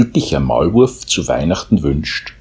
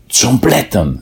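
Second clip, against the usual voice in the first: happy mole; 7 semitones higher, slower than usual. A narrator's reading. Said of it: "sagte der glückliche Maulwurf".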